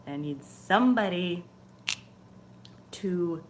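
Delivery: a hint of earnest pleading prayer. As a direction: ask the angel for help, gently begging. Prays to archangel for help.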